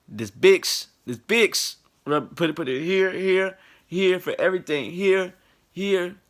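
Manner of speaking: put-on high Filipino accent, insistent; Filipino elder accent. Filipino elders pushing Vicks for everything, high Filipino accent. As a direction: rub it on like a Filipino auntie.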